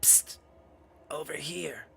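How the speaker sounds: hushed, raspy whisper; secretive hiss to get someone's attention. Acted. Doll calls from cluttered corner, raspy whisper. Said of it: "a raspy voice says".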